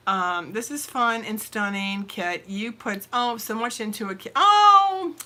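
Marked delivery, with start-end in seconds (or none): 4.3-5.1 high, laughing protest. Real, not acted. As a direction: giggle out stop. Reacting to viewer comments.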